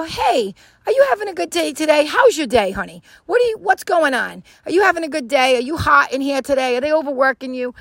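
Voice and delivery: high, chatty check-in; upbeat, caring small talk; friendly concern. Acted. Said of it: "So make a human connection".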